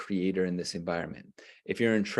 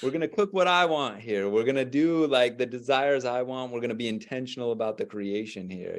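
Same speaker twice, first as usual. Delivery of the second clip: proud declaration; 4 semitones higher than usual. Retold or imitated. Mimics son's declaration playfully.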